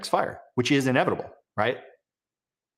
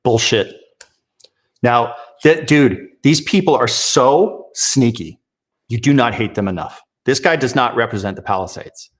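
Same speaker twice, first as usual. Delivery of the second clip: real outrage; 4 semitones lower, 6 dB louder than usual. Real, not acted. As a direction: blast it out in real anger. Furious rant at a senator.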